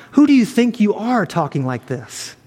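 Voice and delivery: mildly scornful, disrespectful challenge; sarcastic spite. Acted. Crowd challenging Jesus's bold claim, understated sarcastic spite. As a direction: challenge them with a touch of spite. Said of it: "all the sarcasm and spite and disrespects".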